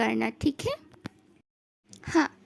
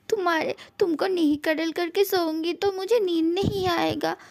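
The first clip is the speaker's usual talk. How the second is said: desperate pleading; 3 semitones higher than usual. Acted. Begging partner not to punish.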